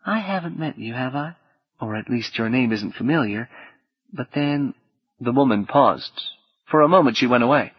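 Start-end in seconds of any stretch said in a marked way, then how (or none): 0.1-4.7 soft woman's voice, lightly southern US; slight southern accent. Acted. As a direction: answer softly with a hint of Southern. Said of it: "tinged with a slight southern accent".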